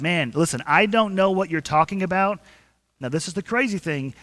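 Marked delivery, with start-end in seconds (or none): 0.0-2.4 a hint of exasperation, louder; irritated denial. Peter brushing off the third accuser, mildly exasperated. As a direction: wave the accuser off, mildly fed up. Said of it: "And Peter replied".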